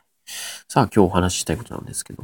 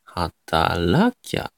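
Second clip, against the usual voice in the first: 働きゃ drawn out very slowly, third mora raised; third mora rises; 3 semitones lower, much slower than usual. Shown as a demonstration. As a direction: slowly show the rise inside 働きゃ. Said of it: "三つ目がやっぱ上がりますね". (「働きゃ」の三つ目を上げてゆっくり)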